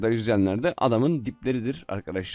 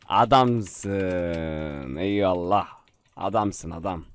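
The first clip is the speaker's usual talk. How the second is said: low, drawn out praise; low deep praise; 7 semitones lower, much slower than usual. Real, not acted. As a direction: say it low and grateful. Praising the player.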